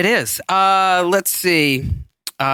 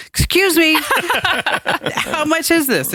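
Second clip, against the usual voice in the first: mock polite question; 11 semitones higher than usual. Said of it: "he says".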